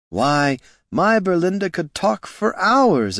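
a hint of a folksy salesman; oily neighborly barkeep, lightly done; lightly voiced barkeep. A narrator's reading. Barkeep character voice.

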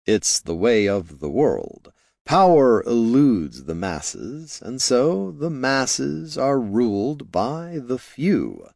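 measured, slow wizard explaining; lightly voiced, slow and lofty; slow sage. Jin philosophises.

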